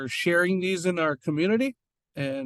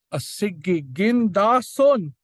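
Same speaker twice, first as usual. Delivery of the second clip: slow demo; 3 semitones higher, 5 dB louder, slower than usual. Shown as a demonstration. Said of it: "giving you an idea of how these sound".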